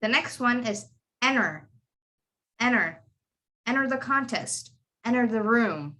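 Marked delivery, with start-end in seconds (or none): 1.2-6.0 "enter" said as "enner", T dropped; silent T. Shown as a demonstration. Teacher models American enter for students, silent T. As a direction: drop the T after N in "enter". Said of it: "You would say enter because the T is after".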